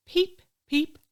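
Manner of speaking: high, loud chick cheeps; tiny bird's piping call; hatching chick. Acted. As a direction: squeak it like a newly hatched chick.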